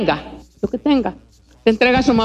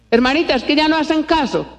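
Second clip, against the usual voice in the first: higher-pitched imitated parent's excuse; mock complaint; 5 semitones higher than usual. Parent complaining to the preacher about children, mock complaint. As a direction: plead like a parent making excuses.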